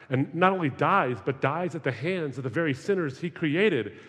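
swelling to an incredulous cry; mounting incredulity. Real, not acted. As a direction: press harder and harder until the final outburst. Rising incredulity at Christian belief.

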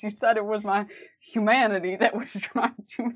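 Dean attempt that slides into a famous singer's style; a singer-tinged try at Dean; Dean sounding like that singer. First go at Dean's line, still sounding like the singer. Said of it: "it's still Elvis".

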